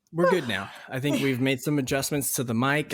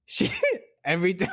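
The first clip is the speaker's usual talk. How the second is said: broken off by bursts of laughter; trying to get the story out while cracking up; laughing to tears; 4 semitones higher than usual. Real, not acted. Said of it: "I've got tears coming out".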